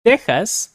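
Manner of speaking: "Texas" with the X said as a breathy H sound; Spanish X as H. Shown as a demonstration. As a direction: voice the X in "Texas" like a throaty H. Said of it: "remember the X sounds like H".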